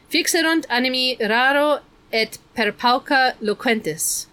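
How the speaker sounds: solemn intoned quotation; intoning. A narrator's reading. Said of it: "Missus Hu intoned".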